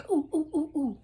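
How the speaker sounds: high, loud eager ooh-ooh of a keen pupil. Acted. Eager pupil begging the teacher to call on her, high and loud. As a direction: bounce in your seat begging to be picked.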